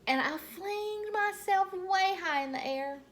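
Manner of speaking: very high, loud thrilled squeal; shouting excitedly. Acted. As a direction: burst with excitement, flinging yourself up. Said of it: "I shouted".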